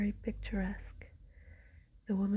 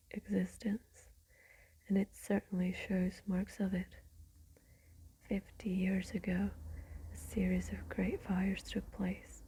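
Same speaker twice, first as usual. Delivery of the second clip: whispered storytelling, every word unvoiced; ASMR whisper. Real, not acted. Whispering Dracula aloud to listeners winding down, ASMR whisper. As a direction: read the book in a steady ASMR whisper.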